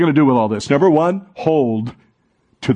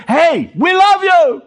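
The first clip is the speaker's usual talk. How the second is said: kindly churchgoer; 4 dB louder, slower than usual. Pretend. Voicing a welcoming churchgoer.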